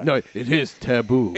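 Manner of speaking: a hint of a horror-movie host, intoning; lightly spooky, half-joking warning; mock ominous warning. Mock spooky warning about taboo.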